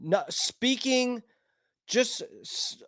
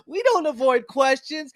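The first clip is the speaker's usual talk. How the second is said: mock Harris; 6 semitones higher than usual. Mocking Harris dodging questions.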